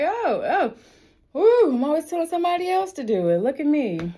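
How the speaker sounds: high, loud laughing self-mockery; laughing at herself.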